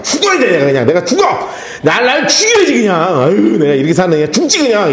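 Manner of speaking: 감정 잔뜩 실어 떼쓰듯, 살짝 과장되게; 죽겠다고 투정 부리는 아들처럼 연기; 몰입한 압살롬. Shown as a demonstration. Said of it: "근데 이렇게 하면 돼". (압살롬 흉내, 과장된 떼쓰기)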